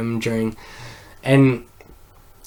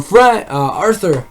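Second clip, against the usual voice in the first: higher-pitched imitated yell; mock calling out; 8 semitones higher, 4 dB louder, slower than usual. Police yelling for him on the stairs, mock call. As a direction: call the name as if from afar, half-voiced. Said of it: "yelling for him".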